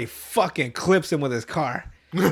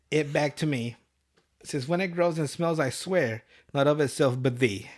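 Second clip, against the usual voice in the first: poem recital. Acted. Reading out the old poem Dad wanted him to sing, measured recital. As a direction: recite the verse evenly, phrase by phrase.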